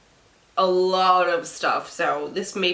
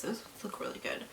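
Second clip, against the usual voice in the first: whispering; 15 dB quieter, faster than usual. Real, not acted. Wistful aside to camera.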